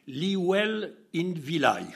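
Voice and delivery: slow, mangled New Zealand English; imitating the hitchhiker's New Zealand accent, slowly. Hitchhiker naming his town, New Zealand accent. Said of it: "avec son accent".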